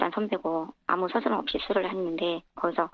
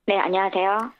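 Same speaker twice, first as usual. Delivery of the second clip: electronically altered voice; voice changer; 3 dB louder than usual. Real, not acted. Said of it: "익명 또 음성 변조를 해서 연결한다는".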